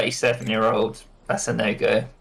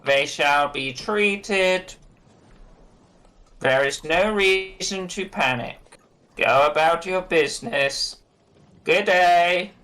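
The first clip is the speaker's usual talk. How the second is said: slow, higher proclamation to the crowd; pompous speech; 6 semitones higher, slower than usual. Acted. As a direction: declaim like a self-important official. Pushkin's speech from a box.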